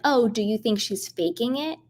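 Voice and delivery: lightly voiced sly gossip, a hint of fake concern; mock Larsa voice. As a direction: needle her in a mocking put-on voice. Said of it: "calling Doctor Nicole and be like".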